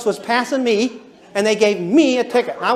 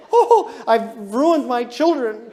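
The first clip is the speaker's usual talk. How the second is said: mock guilty lament; much slower than usual. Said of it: "feel guilty".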